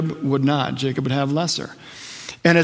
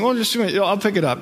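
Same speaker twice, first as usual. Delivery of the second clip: pastor urging; 5 semitones higher than usual. Retold or imitated. Pastor Phil urging him.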